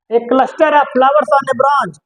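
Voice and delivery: reads the English clue very slowly; slow dictation. Shown as a demonstration. Teacher reading the quiz clue to students, very slowly. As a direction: spell the clue out word by word for the class.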